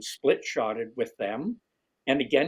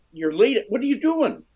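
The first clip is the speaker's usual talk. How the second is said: mock disbelief, climbing much higher and louder; incredulous pro; 11 semitones higher, 6 dB louder than usual. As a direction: imitate the pro's shock at the news, way up high. Pro shocked he is leading.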